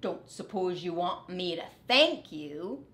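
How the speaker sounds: a dog voice with a dry tease; dry teasing dog; lightly voiced dog. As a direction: ask it wryly. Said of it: "said Dog".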